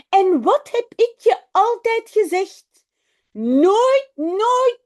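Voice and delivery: a father laying down the rule; scolding. A narrator's reading. Father scolding Jip about the typewriter, loud telling-off.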